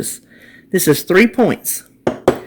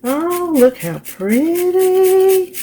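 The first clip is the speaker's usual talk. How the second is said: delighted; 11 semitones higher, much slower than usual. Real, not acted. Admiring the zested candy topping.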